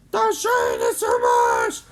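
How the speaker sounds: low, loud and slow strained yell; yelled warning. Acted. Crew member as the ship breaks up, loud strained yell. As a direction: shout over the failing ship. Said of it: "Tara yelled".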